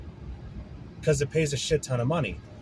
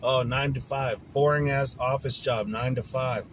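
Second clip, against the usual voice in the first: mocking sneer; 4 semitones lower than usual. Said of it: "people always bagged on".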